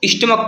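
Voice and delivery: स्टमक ending in a hard K sound; final CH as K. Shown as a demonstration. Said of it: "pronunciation का निकल रहा है".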